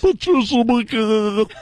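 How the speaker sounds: slow, smiling ad-lady sign-off; Patricia McCann impression. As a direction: say her name like you're grinning hard. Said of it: "she tries to make it sound like she's ... smiling real hard".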